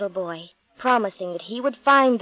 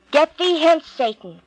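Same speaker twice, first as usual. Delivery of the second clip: commanding, louder and higher on get thee hence; stern rebuke; 5 semitones higher, 4 dB louder than usual. Acted. Jesus orders Satan away in a stern, loud rebuke. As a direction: drive the tempter away with authority.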